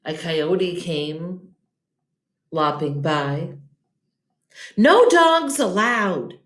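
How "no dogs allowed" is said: slow, louder gruff yell. Acted. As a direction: bark the rule at the coyote. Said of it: "Hank yelled".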